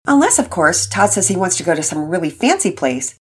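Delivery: lightly voiced hopeful dad; a dad carefully inviting his family; father voice. Father inviting wife and son, lightly voiced dad.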